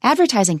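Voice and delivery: "Advertising" said with the main accent on its first syllable; teacher's model stressing the start of "Advertising"; high phrase stress. Shown as a demonstration. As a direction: make the start of "Advertising" the peak. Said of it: "听起来特别高".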